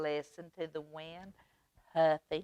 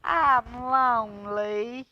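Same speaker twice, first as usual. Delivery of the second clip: lonely plea; 4 semitones higher, 7 dB louder, slower than usual. A narrator's reading. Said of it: "he cried".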